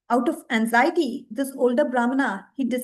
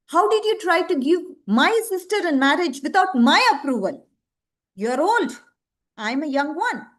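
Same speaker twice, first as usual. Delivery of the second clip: mildly acted indignation, higher pitched; a son lightly playing up his authority; indignant son; 5 semitones higher than usual. Son challenges father over sister's marriage, mildly indignant.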